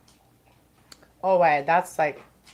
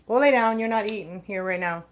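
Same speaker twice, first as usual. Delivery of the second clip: raised voice, go lay down; firm command to dog; 3 semitones higher than usual. Real, not acted. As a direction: tell the dog off firmly. Ordering dog away from food.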